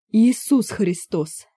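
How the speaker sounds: slow drawn-out groan of despair; long-suffering groan. A narrator's reading. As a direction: moan it, exasperated to the bone. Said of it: "простонал карлик".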